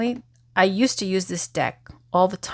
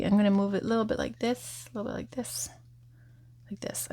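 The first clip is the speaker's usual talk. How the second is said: fading away; 2 semitones higher, 7 dB quieter, faster than usual. Real, not acted. Fading while moving cards.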